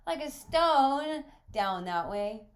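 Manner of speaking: very high, loud, drawn-out echo; astonished boy. Acted. Boy questions visitor's swimming answer, loudly astonished. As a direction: repeat it slowly in loud, high disbelief.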